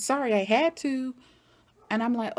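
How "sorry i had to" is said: lightly imitated child, a bit higher; kid's voice. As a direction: pitch up slightly like a little boy. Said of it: "kid's voice says".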